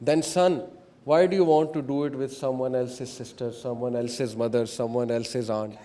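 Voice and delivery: quiet fatherly appeal, understated; very loving. Retold or imitated. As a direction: reason kindly with a son, without scolding. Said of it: "اسے بڑے پیار سے کہا".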